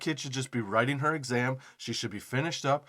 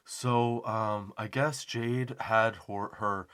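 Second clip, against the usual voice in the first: slow, calm principal; 3 semitones lower than usual. Retold or imitated. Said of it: "his delivery, dude, was terrifying".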